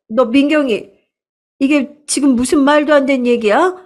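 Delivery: stammering, then rising to a sharp demand; panicked aunt. Acted. Aunt confronting her lying daughter, acted panic rising to a shout.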